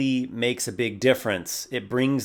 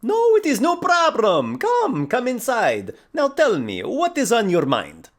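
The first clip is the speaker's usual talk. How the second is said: put-on loud, very high, effusive Mediterranean accent; 13 semitones higher, 7 dB louder than usual. Host inviting a visitor inside, excited Mediterranean accent. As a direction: welcome them boisterously in a broad Mediterranean accent. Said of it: "Mediterranean-inspired accents".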